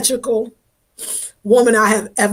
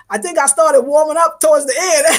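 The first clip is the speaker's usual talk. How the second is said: laughing quote; 3 semitones higher, 4 dB louder than usual. Retold or imitated. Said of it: "she was like".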